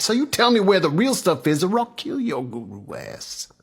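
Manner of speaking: high, fast demand falling away; angry threat. Acted. Roy threatens the guru.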